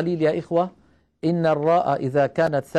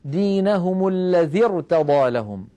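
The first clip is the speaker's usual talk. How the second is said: slow recitation; slower than usual. Shown as a demonstration. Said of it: "مقدرة مثل إيش؟".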